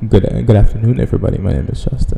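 a strong, deep welcome voice; deep announcer intro. Shown as a demonstration. Justin shows his strong voice for the podcast intro. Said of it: "I have a strong voice".

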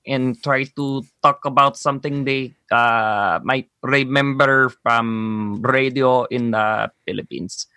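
put-on light Filipino accent. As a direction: slip into a poor Filipino accent. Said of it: "that Philippines accent is pretty good".

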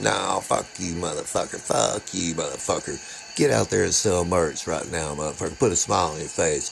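a hint of a surly bandmate telling him off; gruff bandmate. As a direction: growl the insults low under your breath.

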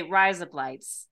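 slow, mock Australian 'rise up lights'; Australian accent. Shown as a demonstration. Friend demonstrating an accent trick to co-host, Australian accent. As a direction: say it to pass for Australian 'razor blades'. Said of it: "it sounds like razor blades in an Australian accent".

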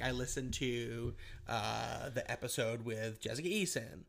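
slow, deadpan fake letter reading; mock updated letter. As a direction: read it like the writer a year later. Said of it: "I'm just, I'm messing around".

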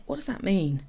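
unvoiced whisper, discreet; whispered question. Asking the mother in the shop, hushed whisper. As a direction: whisper it so only she hears.

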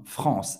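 "France" with nasal ɑ̃, no sounded N; nasal AN vowel. Shown as a demonstration. Teacher explaining the A-N spelling, nasal vowel. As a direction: say "France" as frɑ̃ss, vowel through the nose. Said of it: "tem o som do on".

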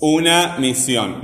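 slow phrase with "una" stressed on the U. Shown as a demonstration. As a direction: stretch and press the U of "una". ("una" lenta, con la U bien marcada)

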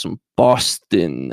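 put-on half-hearted, drawn-out Boston accent; Boston accent attempt. Podcaster about to move there, failed Boston accent. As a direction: try Boston slowly and badly. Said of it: "I can't do a Boston accent yet".

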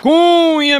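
stretched-out high call of "A Cunha"; catchphrase shout. Acted. Comedian opening a joke with a long drawn call. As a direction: belt out "Cunha" slow and high.

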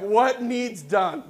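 loud, slow and high, keen to start; eager question. Retold or imitated. Preacher playing himself ready for God's task, loud and keen. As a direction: ask it like you can't wait to get to work. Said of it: "I'm like".

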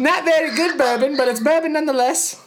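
high put-on British accent, hammed-up; British accent test. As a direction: play a jolly British host offering bourbon. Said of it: "is going to be in a British accent".

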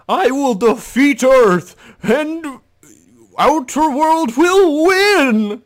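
loud, high-pitched cartoonish villain yell; drawn-out squawking mock battle cry; Shao Kahn. Critic mocking a movie villain's first lines, high silly shouting. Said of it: "that's how he sounds".

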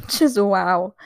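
laughing Just wow. Real, not acted. Amazed at a singer, laughing. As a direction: chuckle through it.

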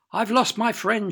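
put-on loud, high childlike wail; storybook howl of distress; mock howl. A narrator's reading. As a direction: wail it as an upset little girl. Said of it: "Annabel howled even louder".

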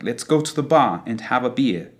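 British accent, bar and beer without R; British English. Shown as a demonstration. Teacher turning the phrase British, British English accent. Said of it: "in British English would sound like".

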